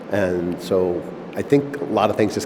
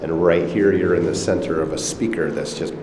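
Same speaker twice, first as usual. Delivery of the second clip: talking inside a resonant, echoing dome; natural room echo. Shown as a demonstration. Host demonstrating the dome's acoustics to a visitor, natural echo. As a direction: voice reverberating off the room. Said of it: "a very natural echo".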